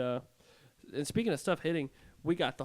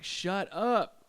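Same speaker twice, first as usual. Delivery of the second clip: higher-pitched, exasperated mock yell; upset retold yell; 7 semitones higher than usual. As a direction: imitate an escalating, fed-up yell. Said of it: "getting more and more upset".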